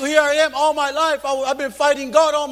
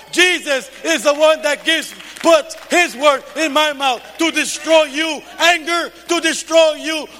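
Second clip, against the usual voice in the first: preaching rebuke. Acted. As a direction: drive it out word by word. Preaching rebuke at full force.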